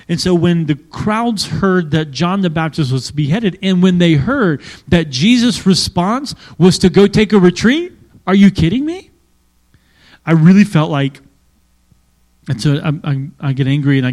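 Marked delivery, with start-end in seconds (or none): 3.6-9.1 rising incredulity. Acted. Preacher building outrage over crowds.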